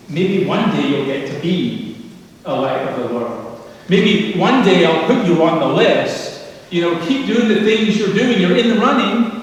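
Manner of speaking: mock grudging someday promise of light; mock hedging promise. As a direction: tease a half-hearted someday offer. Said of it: "he doesn't say".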